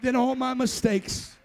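chanted, rhythmic preaching build; full-force preaching. Real, not acted. Preacher urging people to keep feeding the miracle, full-force preaching. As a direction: pound out each repeated phrase like a refrain.

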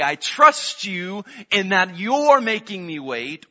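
slow earnest prayer. Acted. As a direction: pray it slowly from the heart. Voicing a prayer of trust.

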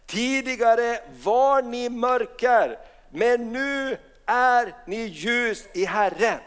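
slow, solemn verse reading; slow scripture reading. Acted. Pastor reads Ephesians to congregation, slowly.

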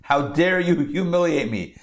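lightly hammed-up outrage; Balaam. Teacher voicing Balaam humiliated by the donkey, mock-enraged. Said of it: "just enraged".

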